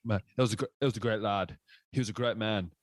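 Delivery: a lightly put-on British accent, badly imitated; lightly hammed British accent impression of a boxer; bad Tyson Fury impression. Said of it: "terrible accent, but I'm just, I'm trying to imitate".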